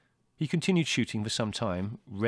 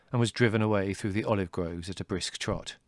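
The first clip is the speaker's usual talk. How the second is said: plain reading voice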